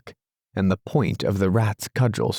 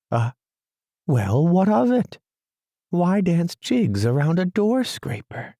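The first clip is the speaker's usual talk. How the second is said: higher, fussy little mole voice; a doubtful mole who can't see the point; Mole, stubborn and puzzled; 7 semitones higher than usual. A narrator's reading. Mole's voice in story.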